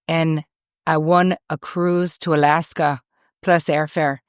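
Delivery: loosely imitated Irish accent; David Feherty. Golfer offering friends his cruise, bad Irish accent. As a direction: retell it in a terrible mock Irish accent. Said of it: "This is me doing a terrible Irish accent".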